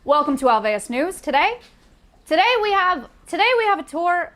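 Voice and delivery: news anchor voice. Shown as a demonstration. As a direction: read it like a TV anchor. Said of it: "my news anchor voice".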